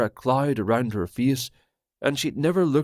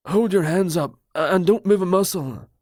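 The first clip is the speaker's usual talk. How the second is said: higher, louder barked order from the dark; called out command; 7 semitones higher, 4 dB louder, faster than usual. Acted. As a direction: call out a stern command. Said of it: "Roger's voice called out".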